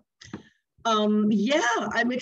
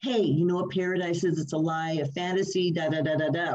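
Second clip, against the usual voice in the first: low recited talking bit from a song; spoken song bit; 4 semitones lower than usual. Retold or imitated. Singer recalls her song's talking bit, low recitation. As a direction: recite it low, tailing into da-da filler. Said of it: "we had the talking bit in it".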